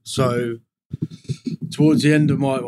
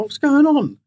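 mock panic; 13 semitones higher, 5 dB louder, slower than usual. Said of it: "I was thinking".

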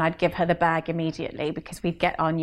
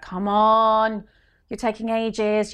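impatient nagging; 4 semitones higher, 4 dB louder, much slower than usual. Retold or imitated. Kids hurrying mum out the door.

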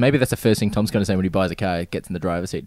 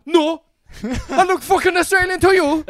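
high-pitched indignant mock outburst; hammed-up irritated comeback; exasperated retort; 3 dB louder than usual. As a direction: throw it back, affronted and much higher. Retold exasperated retort to strangers.

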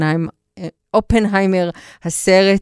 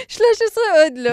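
put-on high, quick French-accented Hebrew; flirty French accent with a laugh; flirtatious French accent; 12 semitones higher, much faster than usual. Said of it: "לחזור לדבר במבטא צרפתי".

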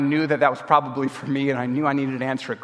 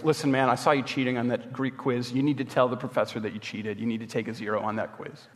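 retold friend, low and hushed, sinking quieter; sober confrontation; 4 semitones lower, 6 dB quieter than usual. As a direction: quietly act out a friend's serious reproach. Friend confronts him over cheating.

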